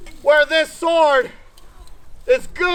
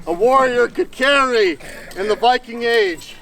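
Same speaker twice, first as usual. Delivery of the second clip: slightly winded, short of breath. Real, not acted. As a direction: talk while still catching breath. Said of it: "Sorry, I'm a little winded".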